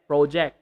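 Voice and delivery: PRO-ject with an oh vowel; long-o project. Shown as a demonstration. Teacher repeats the mistaken form, long-o project. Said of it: "not project".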